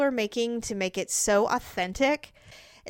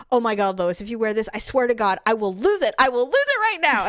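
mock excited Peter; 4 dB louder than usual. Husband retells Peter begging Lois to wear the dress, building mock excitement. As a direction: get more worked up line by line.

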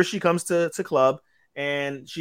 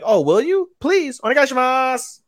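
high, eager mock begging; hammed-up pleading; 10 semitones higher than usual. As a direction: beg in an exaggerated high voice. Acting grateful plea for tutoring.

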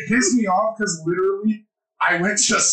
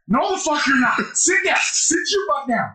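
high-pitched, urgent mock ordering down; retold ref's order; 9 semitones higher than usual. Ref orders a dazed player to sit, mock urgent. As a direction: imitate an alarmed ref taking charge.

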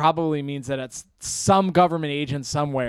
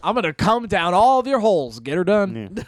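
mock Southern accent; 4 semitones higher than usual. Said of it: "kind of a southern accent".

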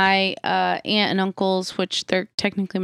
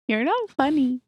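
laughing; 7 semitones higher than usual. Real, not acted. Laughing at Doug's joke.

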